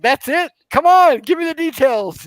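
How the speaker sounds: loud, high mock disbelief; playfully outraged, voice jumping up; exasperated demand. Re-enacting his disbelieving demand for details.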